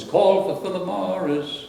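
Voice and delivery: high, slow sung-out slogan call; announcing a brand slogan, called out high and slow. Retold or imitated. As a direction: call it out like the old ad, drawn out and high. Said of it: "the slogan was".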